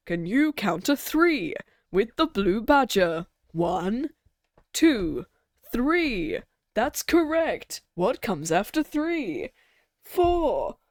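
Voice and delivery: put-on slow, bouncy children's presenter; kids show host. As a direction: talk down like a kids' TV host. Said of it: "talking like a children's presenter".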